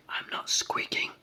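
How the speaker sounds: loud, indignant little brownie; angry shout. A narrator's reading. Tiny brownie objects to the giant, shouting angrily. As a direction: protest loudly and crossly. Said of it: "shouted Hop angrily".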